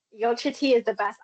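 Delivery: gasps, then gushes with delight; thrilled to find a fellow fan; excited gasp. Real, not acted. Delighted to hear shared taste.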